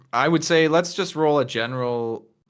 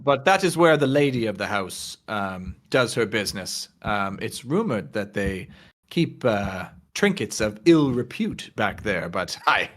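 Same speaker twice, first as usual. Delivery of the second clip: gossiping lounge patron. Acted. Game master as patron rating the lady of the house, gossipy. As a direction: lightly play a hesitant, appraising regular.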